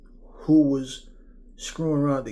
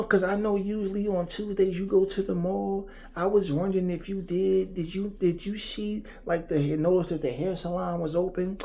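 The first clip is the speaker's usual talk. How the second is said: put-on higher, hesitant girly chatter; childish girl voice; 6 semitones higher than usual. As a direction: play a giggly young girl rambling on. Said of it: "When you're talking to a female".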